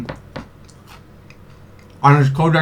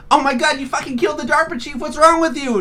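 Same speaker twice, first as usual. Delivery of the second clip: mock Meryl; 11 semitones higher than usual. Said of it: "And she says".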